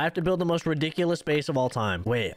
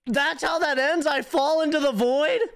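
disbelief; 9 semitones higher, 3 dB louder than usual. Real, not acted. Disbelief after falling into void.

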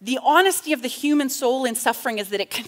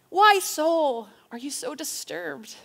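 questioning self-talk; 4 semitones higher than usual. Acted. Speaker asking own soul why, searching self-talk. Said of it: "I talk to my mind and heart and soul".

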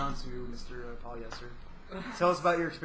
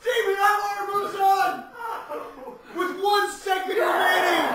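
excited announcing; 12 semitones higher, 3 dB louder than usual. Real, not acted. Announcing the winner.

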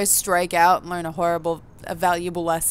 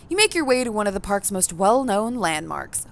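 even, measured narrator read; story narration. A narrator's reading. Reading the game's narration to the audience, evenly. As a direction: tell the player what they see and feel.

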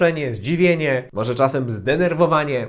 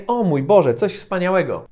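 surprised. Shown as a demonstration.

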